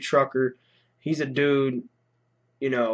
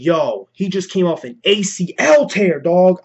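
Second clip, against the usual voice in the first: alarmed; 4 semitones higher, 4 dB louder, slower than usual. Retold or imitated. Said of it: "And then I'm like".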